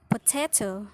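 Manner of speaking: "potato" with TA stressed; middle-syllable stress. Shown as a demonstration. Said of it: "middle syllable will be stressed".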